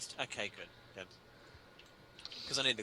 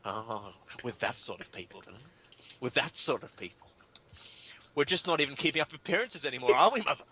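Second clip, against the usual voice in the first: snobbish lament. Retold or imitated. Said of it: "I had the same thought".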